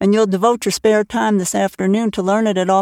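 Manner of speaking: ordinary delivery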